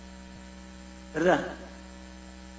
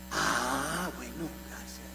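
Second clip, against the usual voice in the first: soft mock reply; 6 semitones lower, 13 dB quieter, much slower than usual. Retold sister's quiet answer.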